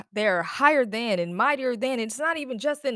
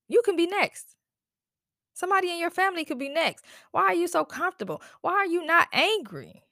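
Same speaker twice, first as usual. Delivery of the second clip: higher, urgent pleading; impassioned plea; 6 semitones higher than usual. Real, not acted. Venting to viewers about police violence, urgent high plea. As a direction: push them hard to care, voice pitched up.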